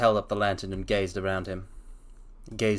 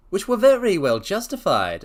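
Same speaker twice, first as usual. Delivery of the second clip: higher, louder dry reply; Holmes, raised and pointed; 8 semitones higher, 6 dB louder than usual. Acted. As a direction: answer crisply as Holmes. Holmes replies.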